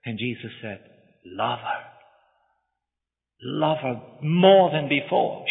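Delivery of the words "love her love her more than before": gentle counsel. Acted. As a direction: speak it like a gentle comfort. Jesus consoles the preacher.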